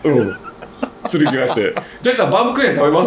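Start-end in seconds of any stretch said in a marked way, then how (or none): 2.0-3.1 high, quick junior-staff voice; imitated eager offer. Young mechanic offering the regular some cake, eagerly imitated. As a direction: mimic a keen underling, pitched up and hurried.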